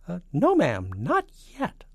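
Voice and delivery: high, nervous spy; falsetto. A narrator's reading. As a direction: squirm out an answer in falsetto. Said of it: "and a falsetto voice".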